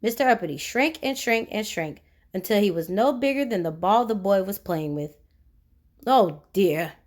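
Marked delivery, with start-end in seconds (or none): 6.1-6.9 gasp. Acted. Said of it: "he gasped".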